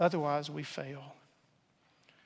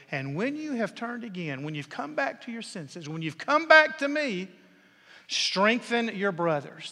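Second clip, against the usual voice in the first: rising fervor; 2 semitones higher, 4 dB louder than usual. Acted. Jesus's prayer for Peter repeated.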